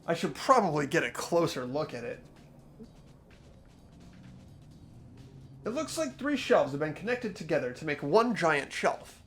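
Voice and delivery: measured reading with lively rises on key words; story narration. Acted. Player reading the game's inner monologue aloud, expressive narration. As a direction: read out the character's thoughts deliberately.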